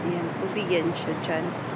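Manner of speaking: breathless from the climb; panting softly between words; out of breath. Real, not acted. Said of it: "Hinihingal akong mag, ano, umakyat".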